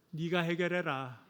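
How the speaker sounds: dismissive dad. Pretend. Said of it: "어떻게 해요?".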